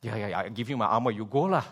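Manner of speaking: quick, offhand mock king brushing David off; lightly voiced offhand Saul, quick; careless Saul. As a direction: toss it off like a panicky king. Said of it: "Saul is doing this".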